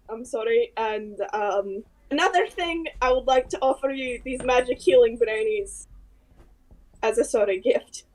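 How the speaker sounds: lightly voiced apologetic character; hesitant in-character apology to a king; a touch of character accent, contrite; Solace, apologetic adventurer.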